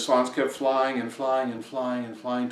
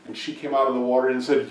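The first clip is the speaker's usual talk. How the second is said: ordinary delivery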